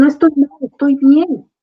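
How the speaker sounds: put-on child voice, loud and high with relief; relieved child. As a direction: play the child comforted, brightening up. Child finds grief is normal.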